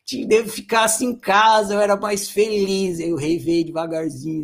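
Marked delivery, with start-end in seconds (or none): 0.0-3.0 panicked thought. Retold or imitated. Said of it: "Ele pensou".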